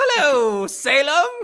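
piercing, shrill, very high and loud. Joining the bit after naming the voice: Winifred Sanderson voice. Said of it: "you just become Winifred Sanderson".

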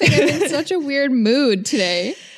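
constant laughing and giggling through the words. Podcast host opening a bonus episode, unable to stop laughing. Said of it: "I can't stop laughing".

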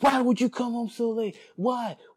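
very high, shrill, angry scolding yell. Retelling how a mother yelled from the door about coming home late: imitating mom yelling. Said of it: "yelling at me from the door".

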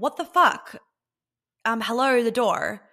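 loud, entitled, demanding tone. Showing how an entitled reminder about the door would sound: entitled demanding tone. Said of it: "That would be entitlement".

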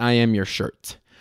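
usual speaking voice

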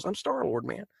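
voice placed and pushed far back in the throat. Showing how to do a voice: Chris Pratt impression. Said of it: "push it to the back of the throat".

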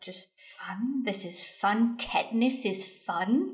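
muttering under her breath. A narrator voices a woman trailing the group to the front door, muttering under her breath. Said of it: "just muttering under her breath".

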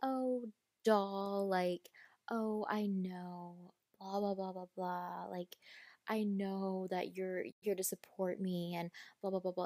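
put-on, belittling, condescending brush-off tone.

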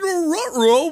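very high, loud cartoon dog voice. Describing a commercial, a speaker quotes the cartoon dog in Scooby-Doo voice. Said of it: "It's Scooby being like".

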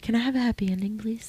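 whispering. Asking the other speaker for a happy ending: whispering. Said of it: "Why did you whisper that at me?".

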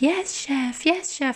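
slow, high, deliberate, dragged-out delivery. Describing a show character's reply to the chef, in Bong Sun's quiet slow voice. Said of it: "in a really quiet slow voice".

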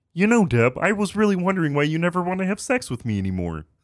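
put-on frog puppet voice. Playing a husband talking to Deb: Kermit the Frog voice. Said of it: "Everybody Loves Raymond with Kermit the Frog".

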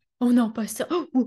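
shrinking, small, constricted, fearful voice. Teaching listeners to hear fear versus love in their writing: demonstrating the voice of fear. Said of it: "la voix de la peur, c'est".

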